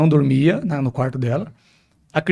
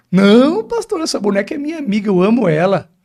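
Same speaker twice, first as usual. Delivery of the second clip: put-on little girl's voice; 5 semitones higher than usual. Pastor voices the little girl.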